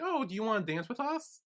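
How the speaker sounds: high-pitched, lightly acted sweet offer; friendly invitation. Maggie inviting Nung to dance, high friendly offer. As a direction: voice a polite, eager invite.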